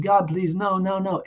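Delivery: high, desperate begging, retold from a dream; pleading through tears. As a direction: beg God, half-crying. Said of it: "And I started crying".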